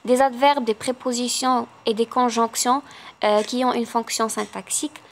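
slow, careful dictation of test sentences; slow classroom dictation; slow exam read. Acted. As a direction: read each option slowly for the class. Reads exam question options.

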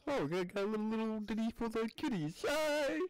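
froggy puppet voice; Kermit the Frog voice. Acted. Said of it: "discount Kermit the Frog".

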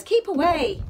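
lightly voiced mother shooing him off; brisk little warning from Mum. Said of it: "Mum says".

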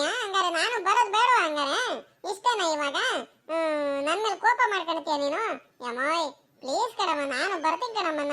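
put-on whining, wavering childish plea; pleading child. Child begs mother to take him. (ಗೋಗರೆಯುವ ಮಗುವಿನ ರಾಗದ ದನಿ)

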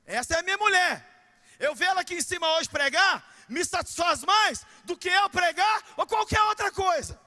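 loud, high preaching cry; preaching at full force. Real, not acted. Pastor preaching loud to the church about his wife.

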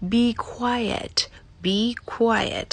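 whispered be quiet; polite whisper. Shown as a demonstration. Teacher showing the polite way to ask for quiet. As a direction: breathe it as a soft polite hush. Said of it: "อันที่สุภาพขึ้นมา".

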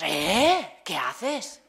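loud, shocked outcry; indignant protest. Retold or imitated. Students protesting to the teacher who stopped the video, loud and shocked. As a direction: cry out at the sudden stop.

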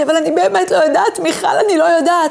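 a touch of weeping, lightly imitated; tearful plea. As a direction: echo the crying young woman's desperation. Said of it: "פתאום דמעות נוטפות ממנה".

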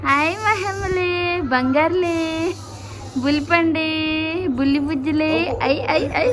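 high, slow cooing. Real, not acted. Aunt cooing at baby Mahi in high baby talk.

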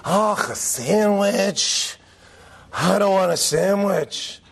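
slow, scornful oh; disdainful kid. Retold or imitated. Kid rejecting the parent's sandwich, slow and scornful. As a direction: sneer at the sandwich slowly. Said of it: "they go like".

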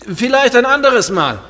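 calling after her loudly. Acted. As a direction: shout it across the room. Ruft der Schwester nach. (laut hinterherrufen)

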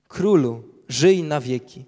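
loud, ringing royal greeting; proclaimed greeting. Acted. Daniel calls out to the king from the lions' den, loud and ringing. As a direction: call it out to the king with full voice.

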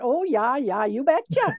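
light mock Minnesota accent; a hint of Minnesota in the vowels. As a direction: imitate a folksy Minnesota lady. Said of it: "that wonderful Minnesota accent".

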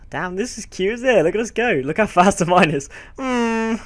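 high, delighted squeal; excited squeal. Real, not acted. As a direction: gush over something cute. Cute horse ride, squealing.

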